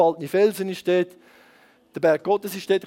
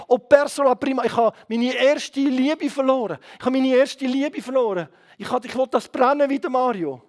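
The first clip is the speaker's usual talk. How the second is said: mock lament, pitched up; lamenting businessman; 4 semitones higher than usual. Businessman confessing to the preacher, lamenting. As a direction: lightly act out a man's earnest confession.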